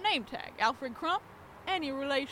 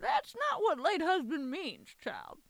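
slow, high patronizing correction; condescending; 6 semitones higher, slower than usual. Acted. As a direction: talk down to the child. Condescending mob mother.

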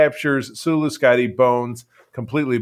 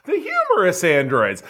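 higher, laughing repeat; amused echo; 6 semitones higher than usual. Real, not acted. Host echoing the co-host's summary, laughing and higher. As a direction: laugh through the words.

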